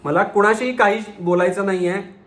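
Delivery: understated yell in a high voice; narrated shout. A narrator's reading. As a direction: cry out for everyone to stop, without full volume. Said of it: "जोरात ओरडून म्हणाला".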